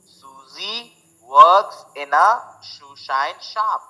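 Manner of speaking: very slow, each s and sh separated; careful slow twister read; slow tongue twister. Shown as a demonstration. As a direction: crawl through the twister clearly. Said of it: "स, श".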